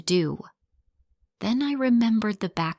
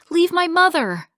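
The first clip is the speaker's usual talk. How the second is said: much higher, louder furious shout; 11 semitones higher, 6 dB louder than usual. Acted. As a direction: yell at him to let go. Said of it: "I shouted".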